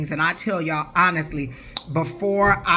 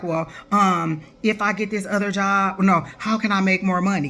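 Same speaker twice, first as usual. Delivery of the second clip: mock whiny client. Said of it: "y'all come on there and be like".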